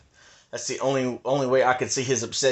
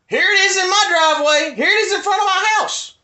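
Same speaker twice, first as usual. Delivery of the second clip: high, loud showing-off; excited insistence; 5 dB louder than usual. Real, not acted. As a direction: point at it excitedly. Showing drone footage, excited.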